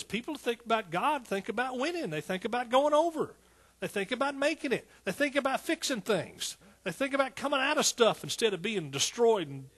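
high-pitched, driving preacher's cadence; excited preaching. Real, not acted. Preacher listing what diligent people think about, excited preaching. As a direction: hammer out each phrase with fervour.

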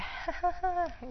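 high mock chuckle; God's laugh. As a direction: laugh high, as God amused at human plans. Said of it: "God's like".

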